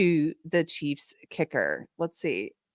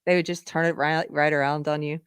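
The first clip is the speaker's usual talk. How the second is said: put-on gossipy girl voice; 3 dB louder than usual. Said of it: "I don't know why I'm doing that voice for this".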